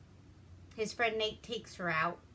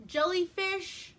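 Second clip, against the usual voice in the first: mock fat hick; 11 semitones higher, 5 dB louder than usual. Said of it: "he's like".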